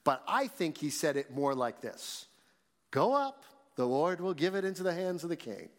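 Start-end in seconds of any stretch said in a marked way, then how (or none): 2.9-5.7 high-pitched sarcastic delivery. Shown as a demonstration. Prophet telling the king what he wants to hear, sarcastically. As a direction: say it so it's obviously not meant. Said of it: "Sarcastically, he said it in a way".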